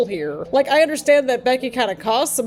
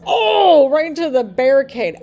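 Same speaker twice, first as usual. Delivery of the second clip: surprised cry; 3 semitones higher, 5 dB louder than usual. Real, not acted. Wrestler hits barricade.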